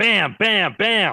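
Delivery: high, loud cartoon character cry, belted out. Showing the others a Bam Bam impression. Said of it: "I also do an excellent Bam Bam".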